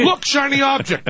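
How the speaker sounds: high, sudden fake wonder; mock excited distraction. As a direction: distract someone gullible with pretend amazement. Acts out distracting Mel Gibson.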